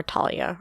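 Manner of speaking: Talia said TAH-lee-uh, plain T; alternative pronunciation. Shown as a demonstration. Co-host offers another way to say the name, alternative pronunciation. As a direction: say Talia with a hard T. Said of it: "however you pronounce it".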